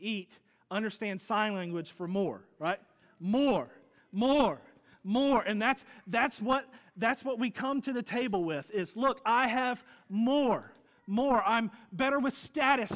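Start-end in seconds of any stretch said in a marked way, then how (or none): 3.2-5.4 loud, high, insistent chant of more; demanding infant. Retold or imitated. Preacher mimicking a greedy infant, loud insistent chant. 9.0-12.9 loud, high, slow boastful claims; boasting one-upper. Retold or imitated. Preacher voicing a proud one-upper, loud bragging.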